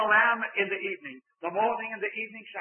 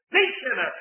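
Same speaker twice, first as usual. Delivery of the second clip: "The" punched high and loud, then sinner falling; stress on THE; 4 semitones higher, 5 dB louder than usual. Shown as a demonstration. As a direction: make "The" the only sinner there is. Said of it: "The emphatic word is there".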